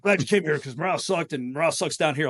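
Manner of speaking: put-on the old gunny griping about morale; lightly voiced grumbling gunny; crusty old gunny. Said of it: "like a crusty old gunny".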